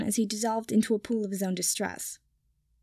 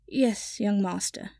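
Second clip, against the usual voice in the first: sleepily; slower than usual. Acted. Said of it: "Kipper said sleepily".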